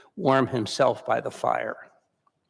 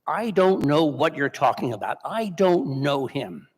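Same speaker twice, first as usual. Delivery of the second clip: a touch of Peter's shouted denial; repeated retold yell; 2 semitones higher than usual. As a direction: insist over and over, calming down. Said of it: "he kept saying it over and over".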